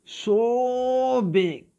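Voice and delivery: put-on child amazed at the whale's size; excited. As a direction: gasp it out in wonder. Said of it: "He's excited now".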